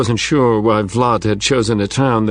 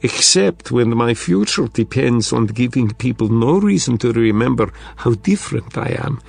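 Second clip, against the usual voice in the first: put-on thick Russian accent. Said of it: "still in a thick Russian accent".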